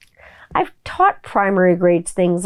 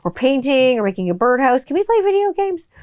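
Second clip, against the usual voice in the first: put-on pleading kid; 3 semitones higher than usual. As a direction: coax like a kid who wants to stay in. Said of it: "They're like".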